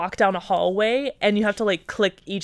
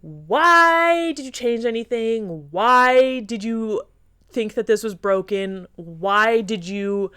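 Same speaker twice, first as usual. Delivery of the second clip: exasperated pleading; 2 semitones higher, much slower than usual. Retold or imitated. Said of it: "you're just like".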